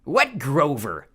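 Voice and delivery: slow, loud, puzzled monster; slow Cyclops question. Acted. Polyphemus puzzled by Clarice, slow monster voice. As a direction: drag the words out like a dim giant.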